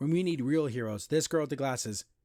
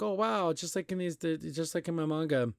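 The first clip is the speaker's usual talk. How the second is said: impressed fangirl; 3 semitones higher than usual. Acted. Manga fan seeing her comic come to life, lightly acted awe. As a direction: imitate a wowed fan, pitch lifted on the opening.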